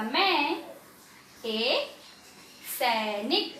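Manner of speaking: separate, drawn-out words for beginners. Shown as a demonstration. Teacher shows pupils how to read word by word, slowly. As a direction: read one word at a time, pausing between. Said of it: "एक एक शब्द पे मात्रा लगा के".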